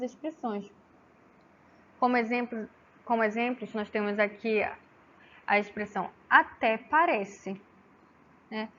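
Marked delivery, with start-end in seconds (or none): 6.3-7.6 ATÉ PARECE with a pointed, falling disbelieving tune; entonação de descrença. Shown as a demonstration. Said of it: "percebe-se aí a entonação de voz diferente". (ATÉ PARECE em tom de descrença)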